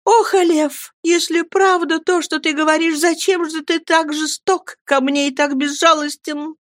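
put-on high, begging young woman; pleading. A narrator's reading. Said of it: "умоляюще произнесла Мириам".

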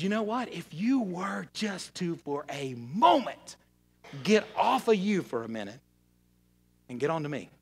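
voiced softly, slowing down, as God; God speaking tenderly. God inviting a struggling believer to let go, tender. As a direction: imitate God coaxing gently, with long pauses. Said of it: "But God says".

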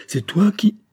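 high, loud outraged question; crying out. A narrator's reading. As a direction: cry out in disbelief, breaking off. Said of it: "s'écria-t-il".

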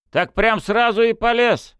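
high, loud, slow disbelief; disbelieving. A narrator's reading. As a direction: doubt his story openly. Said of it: "не поверили мужики".

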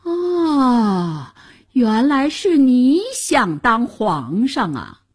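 long high "ah", then accusing; indignant discovery. A narrator's reading. Two heroes turning on the man on the throne, accusing. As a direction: pounce on the culprit in astonishment.

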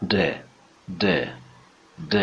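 د with the tongue tip on the gum ridge; short separate د as an alveolar English d; English d demo. Shown as a demonstration. Teacher models the letter d, tongue on gums for د. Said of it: "نوک زبون به قسمت لثه ها".

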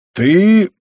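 a choked, loud furious bark; barely held anger. A narrator's reading. Old man facing the matriarch, choking back his rage. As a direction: spit out the one word in barely contained rage. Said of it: "еле сдержал он свой гнев".

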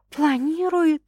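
high, questioning echo; incredulous echo. A narrator's reading. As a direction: toss the word back in disbelief. Echoes the word as a question.

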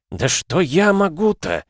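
медленная отчаянная мольба, выше; взмолиться о бессилии; мольба старика. Acted. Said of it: "взмолился старый человек". (старик в отчаянии молит Господа)

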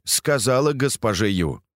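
ordinary delivery, nothing marked

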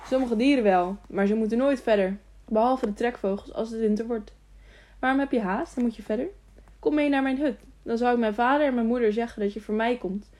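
lightly voiced fool, pitched a touch up; a hint of an eager simpleton. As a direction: chatter on with keen, naive questions.

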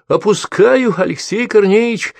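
high loud call down the pit; high shouted warning. A narrator's reading. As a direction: shout a warning as she lowers it. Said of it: "крикнула Ульяна".

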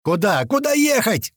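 urgent high yell, jumping up on the repeat; yelled question. A narrator's reading. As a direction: demand directions at the top of your voice. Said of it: "орал Туман".

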